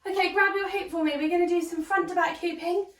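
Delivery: talking out of breath after cardio; panting through the instructions. Real, not acted. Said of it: "you can hear I'm out of breath".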